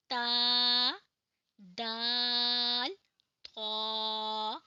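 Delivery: teacher's loud letter demo; emphatic demo. Shown as a demonstration. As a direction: announce it, then press each letter. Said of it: "ज़ुबान की नोक ऊपर के जो दांत".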